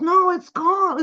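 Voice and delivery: high, loud, drawn-out wail; freaking out. Retold or imitated. Daughter tells her mom the money's gone, high wail. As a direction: wail it like a scared teen. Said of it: "Calder's freaking out".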